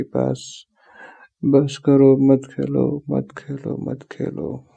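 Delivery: exasperated plea. Acted. Boyfriend begging girlfriend to stop playing, exasperated and fading. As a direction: burst out, then let each repeat sink.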